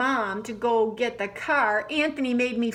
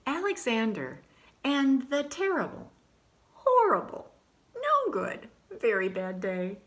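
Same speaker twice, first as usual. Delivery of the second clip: dramatic title; 3 semitones higher than usual. Acted.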